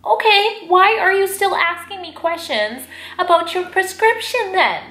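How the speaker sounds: indignant, can't believe it; exasperated disbelief. Real, not acted. Recalling the lady's baffling behaviour.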